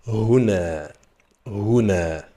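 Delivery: Huna said clearly with a falling end; slow teacher model of Huna; model pronunciation. Shown as a demonstration. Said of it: "Répète après moi". (prononciation modèle de Huna)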